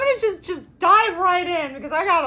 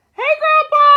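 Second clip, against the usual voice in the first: higher, louder cheery hello; excited greeting; 10 semitones higher, 9 dB louder than usual. Real, not acted. Host greeting grandpa in the live chat, loud and cheery. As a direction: call out a big happy hello.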